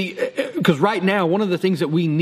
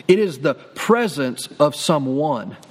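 slow low repeat; 4 semitones lower, slower than usual. Shown as a demonstration. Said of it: "I'm gonna say that again".

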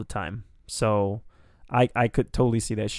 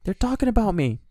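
put-on excited old man; 10 semitones higher than usual. Joining the old cook bit.

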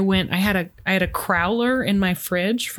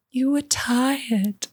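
whisper; 4 semitones higher, much slower than usual. Acted. Claire answers Jamie softly.

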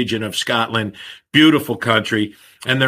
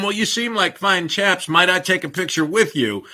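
put-on British accent; 5 semitones higher than usual. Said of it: "I don't do the accent like you can".

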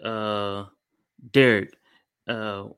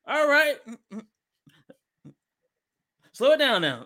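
coach cooling down; 13 semitones higher, 3 dB louder than usual. Retold or imitated. Teacher cooling down the class.

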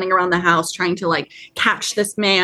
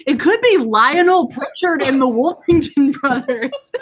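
retold character quote; 5 semitones higher than usual. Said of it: "He's like".

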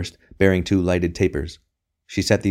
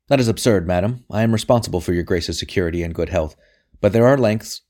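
insistent protest. Acted. Sir Amyas protests to the Queen.

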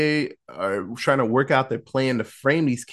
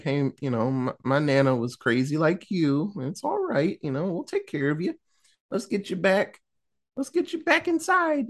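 softly voiced mock reassurance; gentle coaxing; 2 semitones higher, 4 dB quieter than usual. Acts out coaxing a confused old woman.

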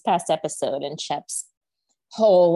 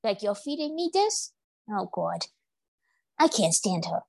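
dog's voice; 2 semitones higher than usual. Pretend. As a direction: give the dog a playful voice of its own, lightly done. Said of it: "Oh yeah, I talk like this".

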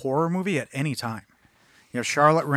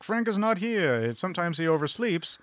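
higher-pitched cafe lady impression; imitating the cafe lady; 4 semitones higher, 4 dB quieter than usual. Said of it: "The lady who works there is like".

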